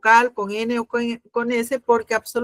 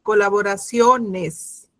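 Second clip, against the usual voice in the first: colaboraciones slowed, leaning on SIO; slow syllable stress; 3 semitones lower, slower than usual. Shown as a demonstration. Teacher slows colaboraciones to show the stressed SIO. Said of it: "la sílaba tónica está en sio".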